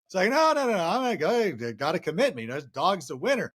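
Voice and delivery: lightly voiced rambling old-timer telling a shaggy dog joke; a hint of a deadpan folksy comic dragging out the joke; Norm Macdonald impression. Doing a light Norm Macdonald voice for the hosts while telling the shaggy dog joke. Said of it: "Norm Macdonald, uh, impersonation".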